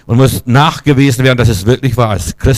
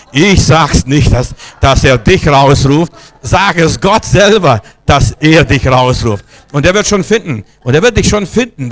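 emphatic preaching; 3 semitones higher, 4 dB louder than usual. Real, not acted. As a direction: preach it forcefully to the whole hall. Emphatic rebuff to a plea.

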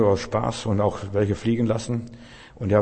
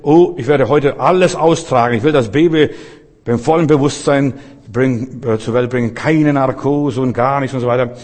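louder, firm quoting of his wife; wife's determined declaration; 4 dB louder than usual. Retold or imitated. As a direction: declare it boldly like the resolute wife. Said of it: "dann hat sie gesagt".

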